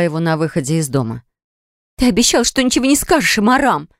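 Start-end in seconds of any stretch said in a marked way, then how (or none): 2.0-3.9 higher, wailing reproach; a hurt wife's lament, voice raised high; Narine wails. A narrator's reading. Wife wails at husband who broke his promise. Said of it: "запричитала Нарине".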